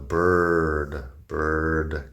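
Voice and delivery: "bird" with a relaxed central er and no clear vowel; relaxed-throat bird. Shown as a demonstration. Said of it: "Tienes la garganta un poco relajada".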